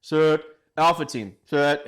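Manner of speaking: retold shouted commands. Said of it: "I was like".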